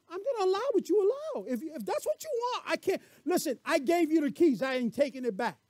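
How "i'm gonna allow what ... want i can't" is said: lightly raised, patient voice of God; God speaking. Acted. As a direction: voice God calmly, a bit higher. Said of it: "He's going".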